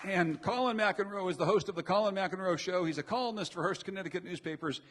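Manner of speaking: loud emcee introduction; announcer intro. Real, not acted. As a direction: call out each guest name. Introducing guest to applause.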